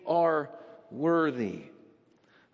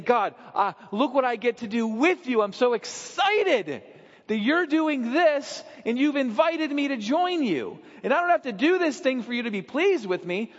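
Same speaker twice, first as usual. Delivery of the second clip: a touch higher, eager and glad; joyful thanks to God; beloved child excited to join in; pumped; 5 semitones higher than usual. Acted. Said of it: "is pumped because they're saying".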